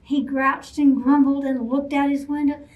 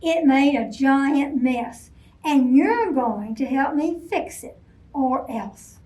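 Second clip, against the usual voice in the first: stern order; 3 dB louder than usual. Acted. Bear ordering Rabbit to fix the mess, stern. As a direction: lay down the law.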